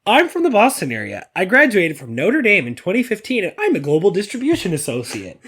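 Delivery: a lightly voiced eager new hire; a hint of an earnest corporate newbie; mock self-introduction. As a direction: rattle off your credentials like a nervous introduction. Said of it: "you'd be like".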